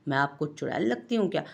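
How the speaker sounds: quick, playful fake annoyance; mock anger. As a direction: pretend to be offended, rushing it. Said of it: "मसनूई गुस्से से बोली".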